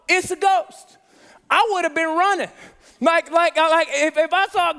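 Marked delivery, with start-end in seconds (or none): 0.1-1.0 higher, louder mock panic; retelling the disciples' panic with a loud mock scream; mock frightened cry. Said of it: "say the following".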